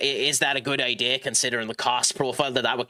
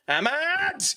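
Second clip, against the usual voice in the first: excited shout. Real, not acted. Goal chance, calling player's name.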